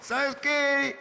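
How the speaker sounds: put-on sloppy drunk confession of love; drunk declaration.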